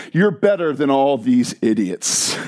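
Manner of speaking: slow tempting murmur; a touch of a tempter, slow; demonic voice. Pretend. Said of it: "What is the demonic voice?".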